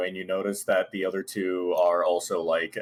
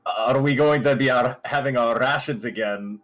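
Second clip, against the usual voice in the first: louder, higher puzzled question; confused asking; 5 semitones higher, 5 dB louder than usual. Acted. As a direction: repeat it as if mildly confused. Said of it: "looks confused and looks at you".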